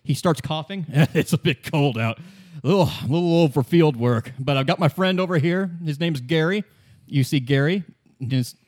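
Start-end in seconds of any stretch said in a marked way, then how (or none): 1.1-6.6 chuckling, lightly voiced old man; a hint of a frail old field scientist; old explorer. Doctor Morell introduces his friend Gary, lightly voiced.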